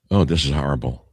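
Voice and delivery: hushed whisper, barely voiced. Real, not acted. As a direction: whisper it in mock horror. Reacting to grim headline.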